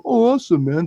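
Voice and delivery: high, exaggerated Valley dude; Valley guy accent. Showing the guys from the Valley, caricatured Valley speak. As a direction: put on a mock Valley accent. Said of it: "not the guys from the Valley".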